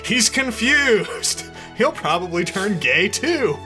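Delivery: very high, loud, stretched exclamations; hammed-up high-pitched panic; mock alarm. A narrator's reading. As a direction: wail it melodramatically. Brock alarmed in story.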